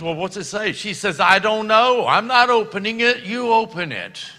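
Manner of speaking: high, loud, panicky mock wife; anxious excitement. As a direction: push the letter away in a frenzy. Couple afraid to open letter.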